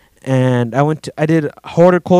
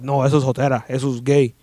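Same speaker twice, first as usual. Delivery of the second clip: macho Mexican boss; 3 semitones lower, 5 dB quieter than usual. Retold or imitated. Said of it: "alpha male kind of Mexican".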